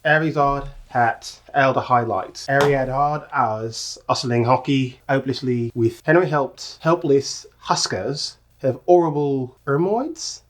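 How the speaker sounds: attempted Cockney, dropping the H's; slow, careful go at Cockney; Cockney accent. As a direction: read it haltingly in a try-out Cockney. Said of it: "in your Cockney accent".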